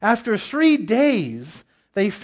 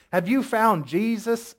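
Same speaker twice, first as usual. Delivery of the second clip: put-on Midwestern accent slipping into Southern; attempted Midwestern accent; 3 semitones higher than usual. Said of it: "That's Southern".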